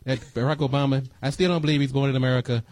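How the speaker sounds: lightly voiced Trump bragging; mock boasting president, voice barely changed; Donald Trump impression. Host jokes his Trump impression is a side hustle, lightly voiced. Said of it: "I do my Donald Trump impressions".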